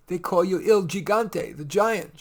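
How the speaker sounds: lightly voiced little girl. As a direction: ask like a small anxious child. Child Leah laughing.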